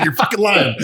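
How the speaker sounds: high-pitched, laughing mock accusation. Retelling the comic calling patients liars, laughing mock outrage. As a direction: accuse them while cracking up.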